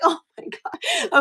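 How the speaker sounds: high, slow amused oh my God; laughing disbelief. Retold or imitated. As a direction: drag it out, laughing at your own bad luck.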